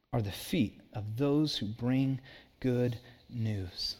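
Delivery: measured, solemn reading that softens and slows at the end; hushed reverent finish; scripture reading. Acted. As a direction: read the verse like holy text, letting it fade. Reads Romans ten aloud.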